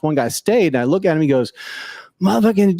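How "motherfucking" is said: higher-pitched quoted swearing; imitated cursing. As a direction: mimic a man cursing to himself. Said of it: "he's, like, cursing".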